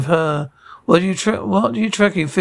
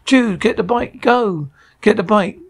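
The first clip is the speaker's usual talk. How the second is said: urgent shout; 4 semitones higher than usual. Acted. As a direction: yell at him to grab the bike. Urgent escape after gunshots.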